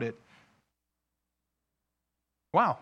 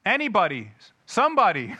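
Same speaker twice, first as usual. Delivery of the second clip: coaxing parent; 4 dB louder than usual. Retold or imitated. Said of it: "I'm like".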